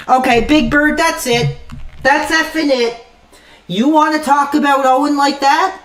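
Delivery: stern warning. Real, not acted. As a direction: call out the troll, fed up. Angrily warns a chat troll.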